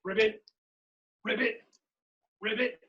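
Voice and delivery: lightly imitated frog calls; short, separate ribbits with a hint of frog. Showing everybody how frogs are, light frog ribbits. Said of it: "Everybody frogs are like this".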